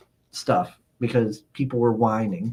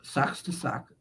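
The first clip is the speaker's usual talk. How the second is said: smug whisper; 10 dB quieter, slower than usual. Retold or imitated. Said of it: "And I'm like".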